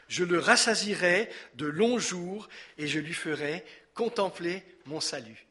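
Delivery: measured, projected psalm reading in spaced phrases; scripture reading. Acted. Pastor reads the psalm's closing promise to the congregation, declaimed reading. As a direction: read out God's promise with emphatic pauses.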